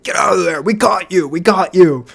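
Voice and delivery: loud imitation of a yelling employee. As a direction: shout it like a manager catching thieves. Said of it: "She was yelling".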